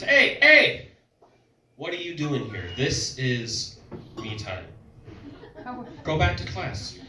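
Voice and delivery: high, loud startled "Hey, hey"; mock freak-out. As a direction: shoo the kid out in a hammed-up panic. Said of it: "starts freaking out".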